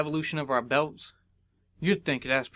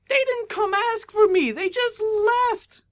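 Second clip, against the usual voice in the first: high, loud betrayed outcry; retelling how friends left without telling him; hurt outburst; 7 dB louder, slower than usual. Retold or imitated. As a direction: yell it out stung and betrayed. Upset friends left without goodbye.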